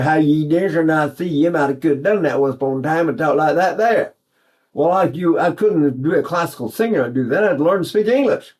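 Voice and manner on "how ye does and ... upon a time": imitating a broad East Texas dialect. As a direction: mimic his old East Texas speech. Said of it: "dialect we speak there".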